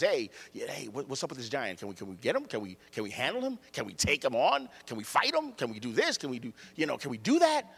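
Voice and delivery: lightly voiced, quick, quiet questions from a curious kid; pestering little boy. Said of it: "this little boy asking questions".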